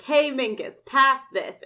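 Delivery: put-on jeering kid tossing a jab; taunting call. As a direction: call it out to tease him. Sean taunting Minkus in retold scene.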